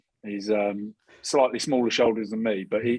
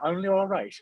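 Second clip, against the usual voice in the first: high-pitched mock Irish accent; terrible Irish accent; 9 semitones higher than usual. Host repeating the jibe back, exaggerated bad Irish accent. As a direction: echo it in a badly faked Irish accent. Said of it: "That was a terrible accent".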